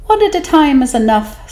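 a tiny sly squeak; 'stute fish voice. Acted. Small fish tempting the whale, high and sly. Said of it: "said the 'stute fish".

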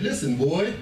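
put-on light Jamaican accent, stern parent; a hint of a Jamaican father. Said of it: "in a little Jamaican accent".

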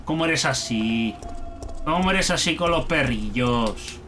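low, sorrowful reproach; pitying lament. Real, not acted. Player mourning the poor little dog, low pitying reproach. Laments what was done to the doggy.

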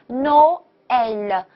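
"no, L" with the voice dropping on L; final vowel sinks. Shown as a demonstration. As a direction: let "L" sink down, as in Noël. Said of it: "音要往下沉一下".

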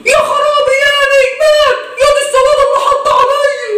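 high, half-comic wailing lament; mock lament. Neighbour lamenting over the dead man, hammed-up wail.

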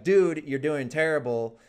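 mock aggressive jab. Toxic teammate insulting a friend's play, mock aggressive jab. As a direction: lean in like a toxic teammate, half-joking. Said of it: "Instead of being aggressive".

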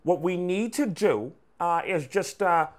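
put-on cartoon voice with stretched words; Peter Griffin. Shown as a demonstration. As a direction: talk through the side of the mouth. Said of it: "Just talk as Peter Griffin".

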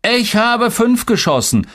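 put-on very high, drawn-out kid brag; squeaky-high one-upmanship; competitive little boy. A narrator's reading. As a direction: outdo your brother in a high child's voice. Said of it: "wetteiferte Tolga".

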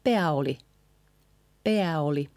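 pää oli joined as one word; words run together. Shown as a demonstration. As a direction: link PÄÄ straight into OLI. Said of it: "these small words together".

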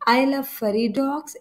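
each word said very slowly and clearly; slow example reading. Shown as a demonstration. Teacher dictating an example sentence to students, very slow. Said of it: "teacher reads out example sentence".

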